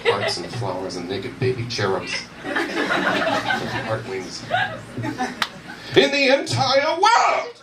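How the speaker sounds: high, slow, gushing card verse; hammed-up greeting card sentiment; mock greeting card. Shown as a demonstration. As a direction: gush it like a sappy card. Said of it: "let me demonstrate".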